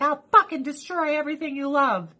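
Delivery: high, lightly voiced cat threat; mock cat threat. Owner voicing her cat Lucy's threat, high and mock. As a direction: play the cat as a petty tyrant. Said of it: "She's like".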